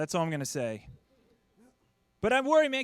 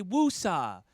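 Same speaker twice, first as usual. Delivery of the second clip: calming mantra; 7 dB louder, much slower than usual. Retold or imitated. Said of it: "rub my ears and say".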